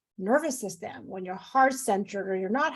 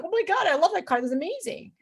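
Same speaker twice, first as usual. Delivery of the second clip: excited; 6 semitones higher than usual. Retold or imitated. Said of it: "I get excited".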